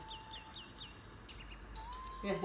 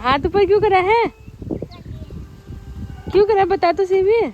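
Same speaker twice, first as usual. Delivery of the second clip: playful questioning; 7 semitones higher, 6 dB louder than usual. Real, not acted.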